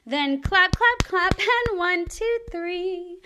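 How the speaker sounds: bright counting claps. Acted. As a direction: count it out with energy.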